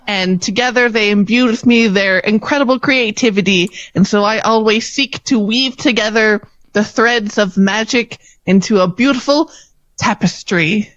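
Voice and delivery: lightly voiced earnest young performer; sweet storybook contestant. Contestant telling the audience about her parents, earnest. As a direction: gush a little, then recite quickly.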